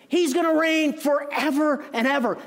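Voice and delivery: full-voiced preacher's cry; ringing proclamation. Real, not acted. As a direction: proclaim it to the whole church. Preacher proclaims the king's reign.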